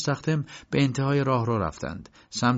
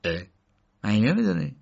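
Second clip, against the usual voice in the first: short exclamation, then an astonished question; taken-aback disbelief; surprised; 3 dB louder than usual. A narrator's reading. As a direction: react with surprise, voice jumping on the question. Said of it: "مستخدم با تعجب گفت".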